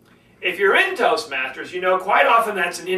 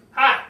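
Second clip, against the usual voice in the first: short, higher, louder HI; quick "Hi" popped up high; hi in one tone; 6 semitones higher, 5 dB louder than usual. Shown as a demonstration. Speaker showing one tone of one word, short high "Hi". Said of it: "one way you could say it".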